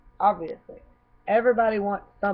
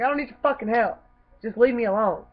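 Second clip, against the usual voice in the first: retold cussing out; 4 semitones higher, 4 dB louder than usual. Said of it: "because I cussed him out".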